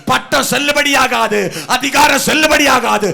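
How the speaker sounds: loud, driving, repeated declarations; preaching at full force. Real, not acted. Preacher tells believers their tears move heaven, preaching at full force. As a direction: hammer each phrase out to the crowd.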